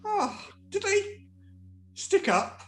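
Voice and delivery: very high, slow and wondering; sedated turtle cooing at the dog; dreamy turtle voice. Acted. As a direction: marvel like a drugged child.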